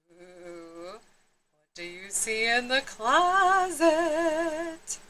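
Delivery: slow spooky storyteller question; teasing question. A narrator's reading. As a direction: lure the kids in, slowly. Narrator teasing the listener.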